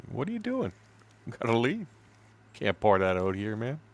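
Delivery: lightly voiced panicky guide; squeaky mock guide. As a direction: mimic the startled guide in a squeak. Guide reacting to poured oil.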